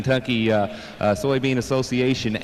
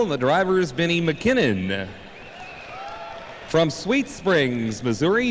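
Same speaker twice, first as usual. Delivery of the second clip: tractor pull announcer; 3 semitones higher than usual. Acted. Co-announcer reading driver intros.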